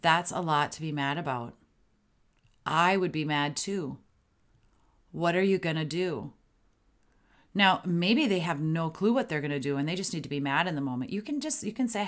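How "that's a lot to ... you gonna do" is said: measured delivery with a clear pause after "mad about" and after "mad too"; deliberate pauses. Shown as a demonstration. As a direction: let "That's a lot to be mad about" sit before "I would be mad too". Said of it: "Notice my pauses in between".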